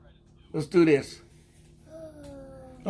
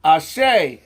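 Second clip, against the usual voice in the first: energetic call; 6 dB louder than usual. Shown as a demonstration. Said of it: "Let me do it and you follow me".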